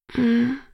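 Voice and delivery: mild sighed "hm"; a small, sleepy hum on a sigh. A narrator's reading. Waking girl answers Edward, mildly sighed. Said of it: "seufzte ich".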